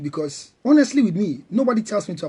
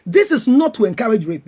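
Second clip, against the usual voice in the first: retelling a firm disclaimer, a bit louder; emphatic; 5 dB louder than usual. Retold or imitated. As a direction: state it emphatically, as quoted. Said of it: "And I make emphatically".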